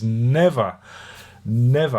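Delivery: each never set apart and stressed; a solemn double never; emphatic never. Real, not acted. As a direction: vow it, firmly. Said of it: "vowed never".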